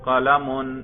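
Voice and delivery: قلم said as qalamun, ending in -un; nominative ending demo. Shown as a demonstration. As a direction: sound the -un at the end of قلم. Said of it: "تلفظ کر کے دکھائیے".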